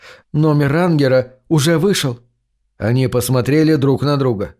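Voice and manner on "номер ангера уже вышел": ordinary delivery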